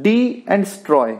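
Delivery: डी and स्ट्रॉय given as two separate pieces, di, then stroy; name डी and स्ट्रॉय one syllable at a time; teacher dividing destroy into डी and स्ट्रॉय; syllables shown separately. Shown as a demonstration. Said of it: "इसमें दो syllable आए हैं".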